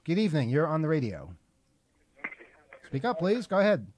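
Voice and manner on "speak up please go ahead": to someone hard of hearing. Real, not acted. Host calling to a faint caller.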